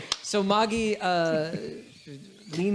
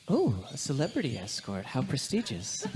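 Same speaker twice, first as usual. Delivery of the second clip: lower, softer, dryly unimpressed cat; cool feline disdain, low and soft; haughty cat; 4 semitones lower, 7 dB quieter than usual. Acted. The cat Moggy greets the celebrity escort Bolton, low and dry. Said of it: "and she says".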